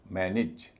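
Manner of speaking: मैनेज as "MAN-ij", second vowel light; reduced second syllable. Shown as a demonstration. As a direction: stress the first syllable of मैनेज, short "i" after it. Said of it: "इस पूरे शब्द का उच्चारण होगा".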